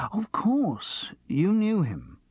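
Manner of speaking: voiceless, hushed dawning; whispered realisation. Acted. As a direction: breathe it as the penny drops. Sudden realisation, aside.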